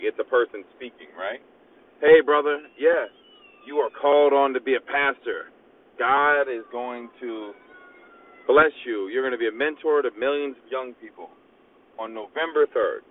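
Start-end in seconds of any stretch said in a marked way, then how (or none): 2.0-13.0 mock prophet stranger. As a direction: announce the blessing like a self-styled pastor. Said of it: "he goes".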